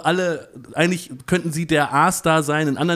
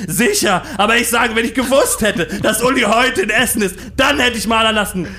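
screaming in a high-pitched fury; berserk rage; 7 semitones higher, 5 dB louder than usual. Acted. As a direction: rant at the staff, loud and high. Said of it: "Zadek bekam einen Tobsuchtsanfall".

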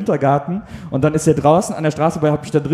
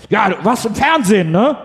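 excited courier; 5 semitones higher than usual. Retold or imitated. Courier recognizing customer from television, imitated excitement. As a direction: play an excited courier spotting someone known. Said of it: "so sehr aufgeregt".

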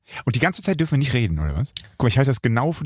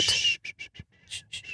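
geflüstertes Zischen zum Abwürgen; leises Pssst; 9 dB quieter than usual. Real, not acted. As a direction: mach leise „sch“, damit keiner hört. Will das Thema abwürgen. (geflüstertes Pssst)

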